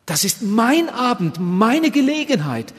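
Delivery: full-force revival preaching; fervent preaching. Acted. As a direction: preach it with swelling urgency. Preacher addressing the hall.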